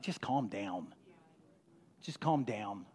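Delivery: low, soft brush-off; dismissive calming. Acted. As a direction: imitate someone hushing a person, low and soft. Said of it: "Sometimes people throw "you gotta have faith" as, like".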